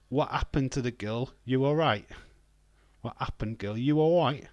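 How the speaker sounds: mildly put-on London accent; lightly exaggerated London accent; London accent impression. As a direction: try out a TikTok London catchphrase. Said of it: "That's, uh, off TikTok".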